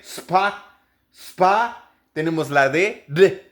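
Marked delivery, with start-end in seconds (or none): 0.0-1.9 "spa" with the P pushed out. Shown as a demonstration. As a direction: push the p of "spa". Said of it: "empujar la P". ("spa" empujando la P)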